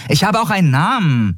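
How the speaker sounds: high-pitched, upset retort; piqued little character voice, high; indignant. A narrator's reading. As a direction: remind him indignantly, pitched right up. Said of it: "erinnerte Nelen ihn aufgebracht".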